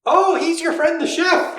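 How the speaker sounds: high, slow Irish lilt; Irish accent, slow and curious; light Irish accent. Acted. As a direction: draw it out in an Irish brogue. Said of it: "You do the Irish voice".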